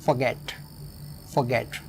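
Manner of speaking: "forget" with a quick "for" and stressed "get". Shown as a demonstration. Teacher repeats "forget" to show stress on GET. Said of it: "stress होगा गेट पर".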